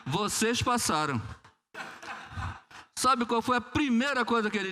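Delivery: dito devagar entre risos; rindo. Real, not acted. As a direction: solte a frase rindo de verdade. Rindo ao contar o desfecho. (pregador rindo ao revelar que passaram, risonho)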